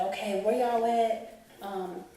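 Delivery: hurried mother ready to go; mom's urgent reply. Retold or imitated. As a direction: voice mom rushing to leave. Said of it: "my mom was like".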